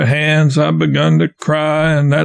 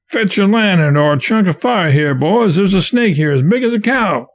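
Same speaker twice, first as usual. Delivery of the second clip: higher, urgent call to the crew; calling out alarmed; 5 semitones higher than usual. Acted. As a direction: raise the alarm about a snake. Raftsman calls to the others.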